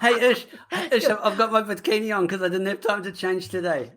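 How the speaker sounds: laughing impression of the co-host; imitating the co-host. Shown as a demonstration. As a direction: mimic your co-host, giggling as you tease. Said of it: "You now try and sound like me".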